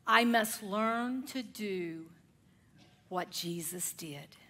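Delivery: slow, breathless whisper of resolve; soft slow whispered vow; hushed whisper. Retold or imitated. Quoted resolve whispered in reflection.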